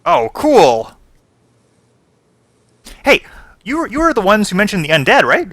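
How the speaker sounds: eager gnome. Acted. Gnome wizard greets the party, high and overeager. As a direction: chirp it out like an overexcited little gnome.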